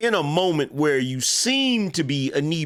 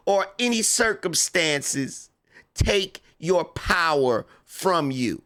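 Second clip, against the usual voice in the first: mock politician, stretched-out phrases with pauses; Kamala Harris; 2 semitones higher than usual. Comedian parodying a politician urging supporters to keep their power, mock-solemn. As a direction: draw out the inspirational lines in parody. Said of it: "a Kamala Harris impersonation".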